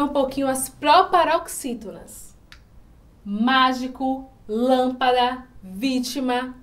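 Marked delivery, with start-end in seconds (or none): 3.2-6.6 "Mágico, lâmpada, vítima", strong MÁ, LÂM, VÍ; word list with each opening syllable punched; stress on first syllable. Shown as a demonstration. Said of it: "A sílaba mais forte está na antepenúltima". ("Mágico, lâmpada, vítima" com força na primeira sílaba)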